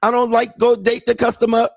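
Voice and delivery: put-on high, broken-English Thai girlfriend voice; mock Thai accent. Mocking Thai girlfriend asking her man for money in a high accented voice. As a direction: imitate a Thai bar girl pleading for money.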